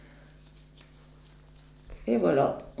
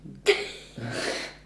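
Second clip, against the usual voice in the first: stifled laugh; 7 semitones lower, 4 dB quieter than usual. Real, not acted. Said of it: "arrête de rire".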